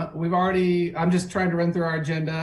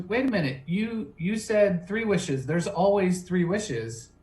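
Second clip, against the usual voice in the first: slow, pitched-up protest; playing the cheated guy, higher; mock-indignant guy; 5 semitones higher than usual. Guy protests in retold joke.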